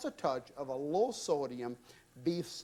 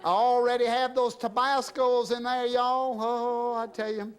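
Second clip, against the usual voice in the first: higher and louder, proud of the heat; excited boast; 6 semitones higher, 5 dB louder than usual. Real, not acted. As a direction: show off the spicy pot to the crowd. Bragging about hot peppers.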